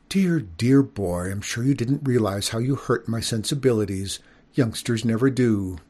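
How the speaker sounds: calm down and forgive him gently. Acted. Skunk lady calming.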